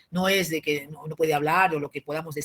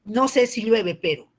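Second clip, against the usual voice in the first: Aymara-style Spanish; 4 semitones higher, 4 dB louder than usual. Retold or imitated. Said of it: "algo así, ¿no?".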